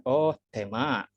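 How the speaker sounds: very slow mock Japanese listener recognising tema; drawn-out realisation, lightly voiced; a Japanese listener finally getting tema; Japanese listener understanding. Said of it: "Itu bagi orang Jepang itu".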